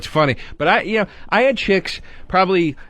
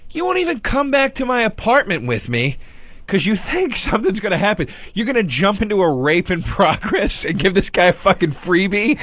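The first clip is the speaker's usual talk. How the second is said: higher-pitched retold argument; incredulous comeback; 3 semitones higher than usual. Arguing back at his date over the story, incredulous. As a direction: throw her doubt back at her, incredulous.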